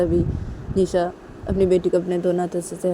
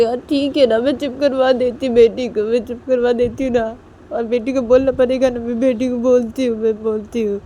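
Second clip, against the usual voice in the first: higher, mildly tearful retort; tearful protest; 6 semitones higher than usual. Acted. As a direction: protest with a touch of crying. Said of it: "निशा से रोते रोते".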